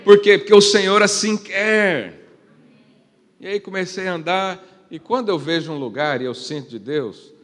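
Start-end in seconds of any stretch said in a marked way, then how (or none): 0.1-2.1 loud, ringing call-and-answer; preaching shout. Acted. Pastor booming God's questions to the church, loud. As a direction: proclaim each answer to the hall.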